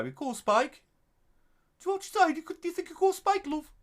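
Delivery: put-on high, loud yam yam accent; high, loud exaggerated Black Country accent. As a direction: ask it like a Black Country local. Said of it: "we're all yam yams".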